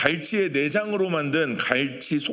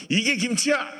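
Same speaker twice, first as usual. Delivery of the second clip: higher-pitched mock exclamation of disbelief; mock scoff; 8 semitones higher than usual. Gyeongsang person tasting Jeolla kimchi, mock scoffing exclamation. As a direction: toss it off like a doubtful local. Dismissive regional kimchi quote.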